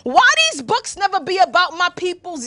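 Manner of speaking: punchy African American street talk; street vernacular. Acted. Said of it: "pause the intellectual sound and flow".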